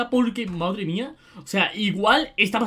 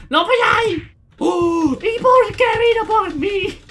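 much higher and louder, with a laugh; panicked shrieks; 9 semitones higher, 6 dB louder, slower than usual. Real, not acted. Gamer caught by the chaser in the game, high panicked shrieks. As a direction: squeal in mock-real panic.

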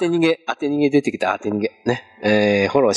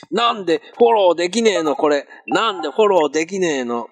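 higher-pitched, whiny mock grumble; mock frustration; 4 semitones higher than usual. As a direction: complain playfully at a broken button. Mock complaint at failed follow button. (ふざけて不満げに嘆く)

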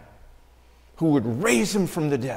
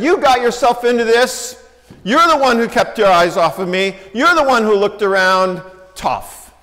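mock scolding; 4 semitones higher, 5 dB louder than usual. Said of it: "Nah, not quite".

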